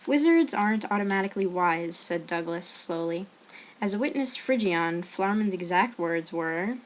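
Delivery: reading a story aloud. A narrator's reading. Vlogger reading a chosen book passage aloud, lively story narration. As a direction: read out a fantasy novel with lightly acted dialogue.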